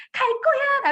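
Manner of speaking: put-on high, loud childish insistence; mock child declaring defiance; insisting child. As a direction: stamp it out like a stubborn kid.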